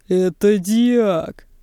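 slow, stunned amazement; amazed. A narrator's reading. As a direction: say it in disbelief. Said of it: "изумившийся более всех Чуб".

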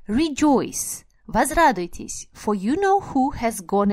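a hint of the squeaky old man. Shown as a demonstration. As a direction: lift the pitch a little, squeaky and glad. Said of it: "in a squeaky voice".

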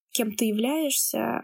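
normal talking voice

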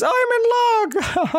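very high, slow chuckled delivery; chuckling. Shown as a demonstration. Teacher showing how she chuckled, chuckling. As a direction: chuckle through it, ending in a laugh. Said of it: "like this".

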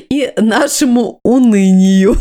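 slow, laughing through the words; nervous laugh. Real, not acted. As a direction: giggle nervously while finishing. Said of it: "Это нервный смех". (нервный смех)

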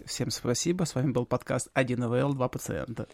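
soft low sultry sign-off. Shown as a demonstration. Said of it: "своим томным голосом сказать".

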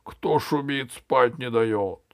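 drawn-out sleepy grumble; just woken, words trailing slowly. Acted. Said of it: "спросила голова сонным голосом". (сонным голосом)

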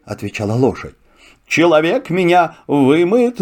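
lightly voiced proud horse. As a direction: boast like a swift horse. Horse speaks. (голос лошади)

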